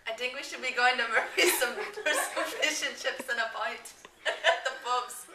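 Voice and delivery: put-on a mild Irish accent breaking into laughter; giggling accent attempt. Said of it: "You should be talking in Irish".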